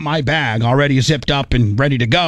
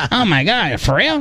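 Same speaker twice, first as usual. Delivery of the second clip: amazed friend; 6 semitones higher than usual. Retold or imitated. Friend amazed by first class.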